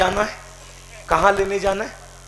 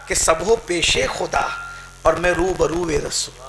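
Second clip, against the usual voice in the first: poetic recitation; 2 semitones lower than usual. Shown as a demonstration. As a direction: linger over each word of the verse. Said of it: "عجب تماشا ہو".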